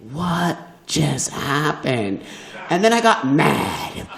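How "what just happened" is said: stunned. Retold or imitated. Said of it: "I was like".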